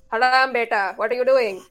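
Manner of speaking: put-on playful South Asian auntie accent scolding; parents' South Asian accent. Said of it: "I went into that accent".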